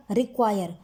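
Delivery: रिक्वायर with the "क्वा" pressed; stress on Q. Shown as a demonstration. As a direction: lean hard on the Q sound in रिक्वायर. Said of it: "क्यू पे बहुत ज़्यादा". (रिक्वायर में क्यू की आवाज़ पर दबाव)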